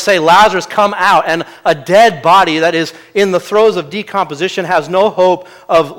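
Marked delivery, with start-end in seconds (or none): 0.2-1.2 retold command, a bit louder. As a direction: call it out with moderate force, imitating a loud command. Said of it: "with a loud voice".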